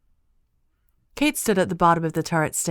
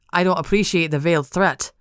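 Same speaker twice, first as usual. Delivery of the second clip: retorting; 4 dB louder than usual. Acted. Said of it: "Jack retorted".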